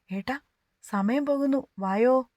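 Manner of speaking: Meenootty calling up to her brother from downstairs. Acted. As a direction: call up to him from below. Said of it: "താഴെ നിന്നും മീനൂട്ടി വിളിച്ചു പറഞ്ഞതും".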